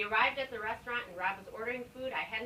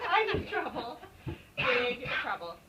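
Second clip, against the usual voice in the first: laughing; 4 dB louder, slower than usual. Real, not acted. Laughing through reading.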